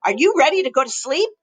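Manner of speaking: a hint of a fond dad; easy bedtime dad voice; lightly voiced papa. Papa tucking in his chick, gently voiced. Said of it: "said Papa".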